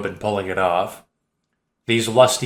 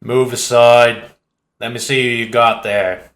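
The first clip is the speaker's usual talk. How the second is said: with command; 4 dB louder than usual. Acted. Cockney man ordering the women aside, commanding. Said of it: "The voice speaks with some command".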